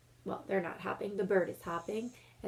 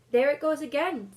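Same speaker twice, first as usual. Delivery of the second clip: higher, louder alarmed spotting; urgent Susan; 7 semitones higher, 10 dB louder than usual. Acted. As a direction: point it out in a startled rush. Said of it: "said Susan presently".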